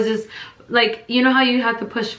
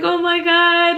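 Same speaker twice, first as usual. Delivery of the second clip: wailing oh my God; 9 semitones higher, 4 dB louder, slower than usual. Retold or imitated. Retold wail in pain.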